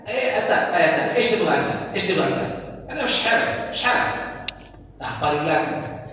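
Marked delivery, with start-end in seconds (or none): 0.0-4.1 mock street Arabic, "Ish halak?" thrown out high and casual; colloquial Arab dialect. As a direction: imitate a dialect-speaking local. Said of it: "tapi kalau ngomong".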